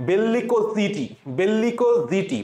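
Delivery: voiced z opening "জিটি"; z-sound memory pronunciation. Shown as a demonstration. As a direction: end "বেল্লিকো জিটি" with zee-tee in place of see-tee. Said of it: "আমি এই জন্য উচ্চারণ করার সময়".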